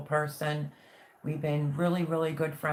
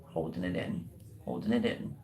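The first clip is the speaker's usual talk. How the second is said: holding back tears; 10 semitones lower, 4 dB quieter than usual. Real, not acted. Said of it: "Don't you dare start crying".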